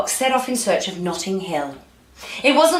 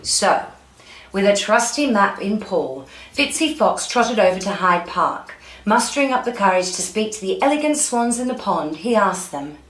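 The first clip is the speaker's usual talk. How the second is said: lively read-aloud storytelling; story narration; 2 semitones higher, 4 dB louder than usual. A narrator's reading. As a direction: read it out like a picture book for children.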